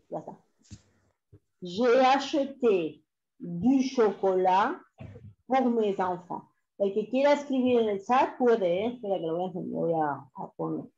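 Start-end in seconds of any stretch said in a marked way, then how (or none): 1.6-6.4 slow, connected French sentence; dictation repeat. Shown as a demonstration. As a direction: read it back slowly for students writing.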